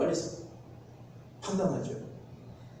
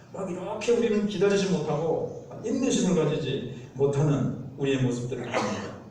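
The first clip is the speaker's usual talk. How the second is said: normal talking voice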